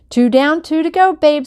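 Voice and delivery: high, loud crowd yell; holler from the crowd. A narrator's reading. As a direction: shout it up to the star. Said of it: "some guy hollered".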